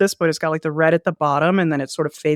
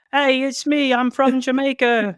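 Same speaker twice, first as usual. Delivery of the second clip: higher-pitched mock Jamaican with a Christopher Walken slant; bad Jamaican accent; 7 semitones higher than usual. Shown as a demonstration. Host takes his turn at a dare, in a hammy Jamaican accent. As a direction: attempt Jamaican, land near Christopher Walken. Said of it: "my Jamaican impression is just like".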